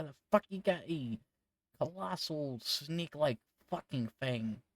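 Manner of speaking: high, loud rude merchant; rude merchant yelling. Acted. The merchant yells at Cassandra about her snake.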